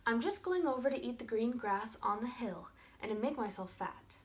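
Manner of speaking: a touch of a small, harmless goat; wee goat voice. Acted. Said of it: "said the youngest Billy Goat Gruff in a wee voice".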